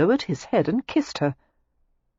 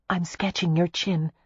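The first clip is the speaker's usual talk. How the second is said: prim. A narrator's reading. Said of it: "she said primly".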